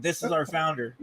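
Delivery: soft, dismayed aside; quiet mock despair; muttered dismay. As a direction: mutter in disbelief. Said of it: "It's like".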